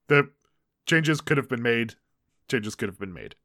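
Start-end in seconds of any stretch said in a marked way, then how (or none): 2.5-3.3 lower, softer aside; quiet repeated concession. Real, not acted. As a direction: drop the voice for a subdued admission. Same concession repeated under the breath.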